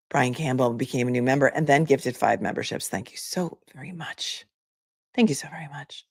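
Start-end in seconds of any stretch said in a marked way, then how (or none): 2.9-6.1 soft whispered gratitude; whispered heartfelt thank you. Real, not acted. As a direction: breathe the thanks in a hush. Thanking member for gifts.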